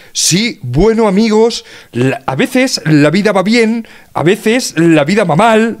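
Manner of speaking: mocking imitation. Streamer mocking another streamer's impression of him, slow mocking imitation. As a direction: exaggerate the way he imitates you, drawn out. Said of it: "yo no hablo así como dice él".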